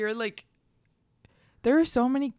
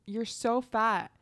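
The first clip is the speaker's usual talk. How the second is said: retold tease; slower than usual. Retold tactless remark from classmate.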